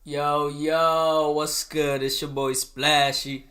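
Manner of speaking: loud raspy hype intro. Acted. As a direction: rasp out a hype greeting. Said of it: "Raspy voice, one time again".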